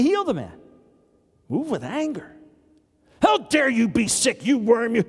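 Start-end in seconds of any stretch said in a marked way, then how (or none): 3.2-5.0 mock angry rebuke. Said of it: "No, then you don't heal the person".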